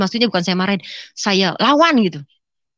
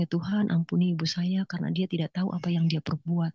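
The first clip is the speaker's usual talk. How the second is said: quiet prayer; 7 dB quieter than usual. Retold or imitated. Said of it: "Saya bilang".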